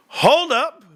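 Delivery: high, loud laugh-broken hold up; trying to talk through laughter. Real, not acted. Cracking up at own story.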